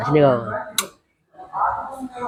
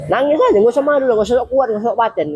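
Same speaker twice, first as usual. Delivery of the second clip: higher, pressing appeal to let go; urgent encouragement; 6 semitones higher, faster than usual. Real, not acted. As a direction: push them gently but firmly. Urging listeners, raised voice. (desakan penuh semangat bernada tinggi)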